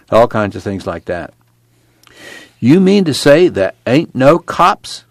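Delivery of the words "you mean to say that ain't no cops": higher, drawn-out disbelief; incredulous question. A narrator's reading. Newcomer questioning the camp watchman, incredulous. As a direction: ask it slowly, astonished. Tom amazed at camp rules.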